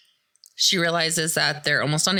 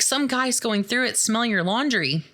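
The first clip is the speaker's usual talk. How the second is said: waitress; 7 semitones higher than usual. Retold or imitated. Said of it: "the waitress is like".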